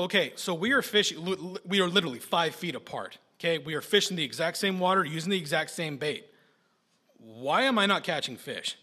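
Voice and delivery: retold frustrated questioning, pushing the point. Nephew asking his uncle about the fishing, frustrated. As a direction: plead the case in mild exasperation. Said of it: "in frustration, I asked my uncle".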